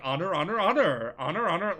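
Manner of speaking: mocking nag. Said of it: "your uncle is like".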